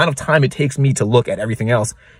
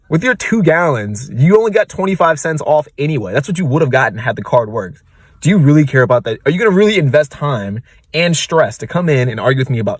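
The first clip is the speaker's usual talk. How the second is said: higher, emphatic imagined comeback; exasperated retort; 5 semitones higher, 3 dB louder than usual. Retold or imitated. Clerk silently answering a customer over twenty-five cents, exasperated. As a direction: argue back at a petty customer in disbelief.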